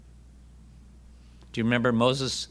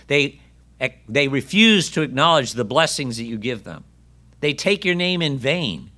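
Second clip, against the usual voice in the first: complaining Elijah; 3 semitones higher than usual. Pretend. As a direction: pour out every grievance with wounded pride. Preacher voices Elijah's complaint today.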